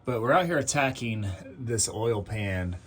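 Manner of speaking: talking while lying on back; lying under a car. Real, not acted. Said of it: "I'm under the car".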